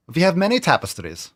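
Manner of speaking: lightly put-on Scottish accent on "many tapestries". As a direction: quote the castle guard in a mock Scottish brogue. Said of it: "I have to say it with a, with an accent".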